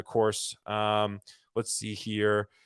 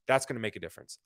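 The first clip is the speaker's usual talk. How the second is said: quiet echo; 4 semitones lower, 7 dB quieter, faster than usual. Real, not acted. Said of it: "repeated line".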